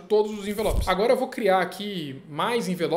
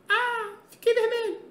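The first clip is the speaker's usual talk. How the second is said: mock squeal; slower than usual. Mock reaction to red eye.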